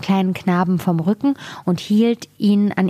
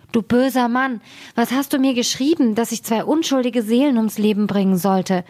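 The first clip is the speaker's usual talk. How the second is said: put-on weeping old mother; 4 semitones higher than usual. Weeping mother scolds the king.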